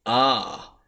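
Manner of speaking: "ah" as a long, open vowel; Middle English vowel A. Shown as a demonstration. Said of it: "it is pronounced ah".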